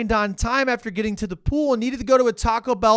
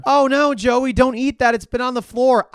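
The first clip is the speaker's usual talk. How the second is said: high scolding warning; nagging voice; 5 semitones higher, 4 dB louder than usual. Pretend. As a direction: scold like a worried parent. Voicing an imagined scolder.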